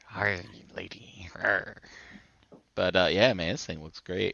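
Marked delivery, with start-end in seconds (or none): 0.0-1.3 slow, breathless whisper. Pretend. Pirate joke whisper. 1.4-1.8 pirate growl. Pretend. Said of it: "Say it like a pirate".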